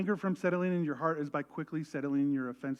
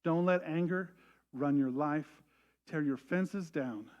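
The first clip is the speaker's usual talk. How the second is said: gentle counsel; 2 semitones lower, slower than usual. Retold or imitated. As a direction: counsel them tenderly. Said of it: "His encouragement is to say".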